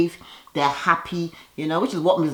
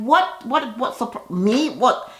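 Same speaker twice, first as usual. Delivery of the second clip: tag; 7 semitones higher, slower than usual. Retold or imitated. Cynthia baffled by surprise, acted.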